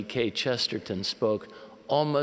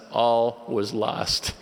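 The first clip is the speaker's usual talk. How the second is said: "All was lost" drawn out slowly and louder; mock despair; 5 dB louder, much slower than usual. Missionary telling of his language panic, in mock despair. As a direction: stretch "All was lost" into a weighty verdict. Deadpan punchline before audience laughs.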